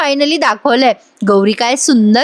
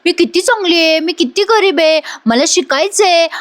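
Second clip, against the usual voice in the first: mocking mimicry; 5 semitones higher than usual. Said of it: "असं मुद्दाम नाटकं करत होतीस".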